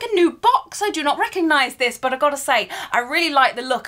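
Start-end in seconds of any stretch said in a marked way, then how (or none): 0.0-2.0 high, amazed double take; surprised. Retold or imitated. Retelling her reaction to the owl post, surprised. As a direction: sound baffled by the new box. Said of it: "I was like".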